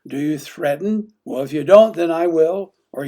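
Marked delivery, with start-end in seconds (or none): 1.2-2.7 loud, sharp threat to a partner; threatening. Acted. Acting out threatening a partner, loudly threatening. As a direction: warn them hard, raised voice.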